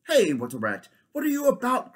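loud hail across the water; king hails the water rat loudly; calling out. Acted. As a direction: call out to the raft.

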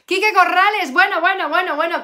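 loud, high, excited greeting; delighted surprise. Real, not acted. Teacher spotting a former history pupil, thrilled and loud. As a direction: exclaim the name, then tumbling repeated "bueno".

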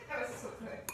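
soft unvoiced whisper. Real, not acted. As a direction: breathe it out, satisfied. Whispered after meal.

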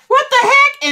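mock startled yelp; surprised. Retelling her husband's reaction, surprised. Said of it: "he was like".

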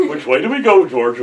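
laughing through the line mid-take; cracking up while saying it. Real, not acted.

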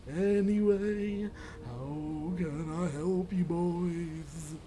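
slow, drawn-out ghostly voice. Acted. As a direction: moan it like a lazy ghost. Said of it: "I'll do a ghost voice".

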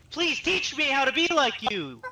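sarcastic. Real, not acted. Sarcastic mock plea.

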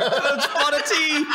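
slow, high mock British accent; cartoonish British, drawn out and high; Stewie from Family Guy. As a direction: stretch it out in a silly British accent. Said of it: "speaks like Stewie from Family Guy".

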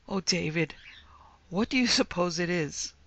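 hushed, fearful whisper; frightened whisper. A narrator's reading. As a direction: breathe the question in fear. Frightened wife at night.

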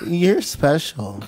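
slow, lightly cracked imitation of Ebony, You're drawn out; a teasing take on Ebony, slowed right down; imitating Ebony. Friend imitates Ebony saying You're special, slow and cracked. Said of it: "give us your Ebony now".

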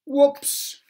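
high, loud startled whoops; loud surprised whoops. Acted. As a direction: blurt it out mid-fall. Mister Clumsy falls into pond.

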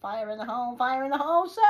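high, building yell into a roar; shouted warning. Pretend. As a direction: bellow it like a demolition call.

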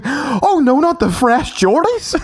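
high, hammed-up wail over the shoes; mock-tragic cry over fresh Jordans; mock dismay. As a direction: whine it like the shoes are ruined. Mock dismay quote of friend.

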